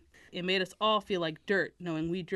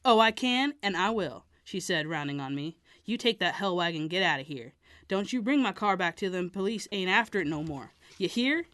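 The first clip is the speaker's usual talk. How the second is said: defiant. Acted. Mary Jane defiant.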